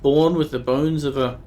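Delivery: a hint of a grieving old woman, archaic; lightly voiced old woman. Old Nika telling the stranger of her dead daughter, lightly grave.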